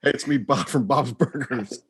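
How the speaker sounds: a lightly done Bob voice, slow; impression of Bob. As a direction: drawl out the line like a mild cartoon dad. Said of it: "Here's my impression".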